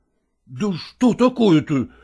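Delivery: hushing. A narrator's reading. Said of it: "остановил её Лагорский".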